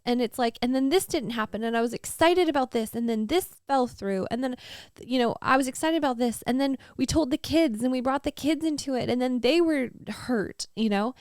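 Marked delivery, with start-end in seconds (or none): 0.6-10.7 pitched-up, aggrieved rush of complaints; raw complaint. Retold or imitated. Complaining to God about closed doors, aggrieved and pitched up. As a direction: list every letdown with rising hurt. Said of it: "a very raw".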